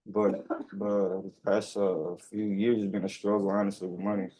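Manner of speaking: muffled behind a face mask; speaking through a mask. Real, not acted. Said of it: "I'm sorry, I can't hear you".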